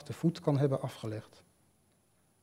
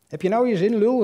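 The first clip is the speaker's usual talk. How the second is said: high, loud scornful yell; angry shout; 8 semitones higher, 9 dB louder than usual. Retold or imitated. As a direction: spit the insult at him. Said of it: "riep ik".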